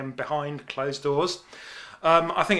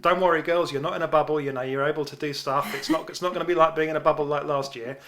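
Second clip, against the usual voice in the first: put-on Australian accent. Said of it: "you're doing your Australian accent again".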